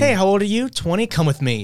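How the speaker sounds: loud, leering pickup line with a laugh; sleazy older guy. Pretend. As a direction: play the creepy suitor, laughing. Voicing the older boyfriend.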